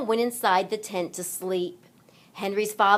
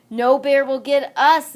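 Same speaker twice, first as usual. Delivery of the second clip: higher and louder, bold promise; brave declaration; 6 semitones higher, 8 dB louder than usual. Acted. Henry reassuring Mudge, loud and brave. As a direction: say it boldly to reassure. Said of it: "Henry said".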